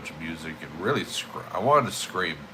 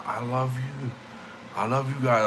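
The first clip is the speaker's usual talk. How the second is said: retold scream; 5 semitones higher than usual. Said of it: "I'm screaming as loud as possible".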